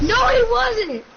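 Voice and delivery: high, loud, slow drawn-out no; loud protest. Real, not acted. Arguing terrorist claim.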